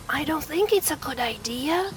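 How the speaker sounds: a tiny bear warns softly. Acted. Tiny bear to big bear, softly warning. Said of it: "whispered the tiny bear".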